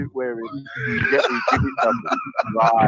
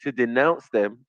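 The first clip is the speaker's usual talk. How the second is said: mock old-school solemn; 6 semitones lower, 4 dB quieter than usual. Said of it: "go strictly old school on him".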